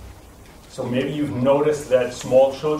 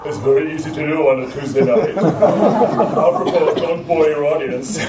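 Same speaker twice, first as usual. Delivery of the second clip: sunk-larynx voice; 4 dB louder than usual. Shown as a demonstration. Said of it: "when my larynx is sunk, my voice sounds very theatrical".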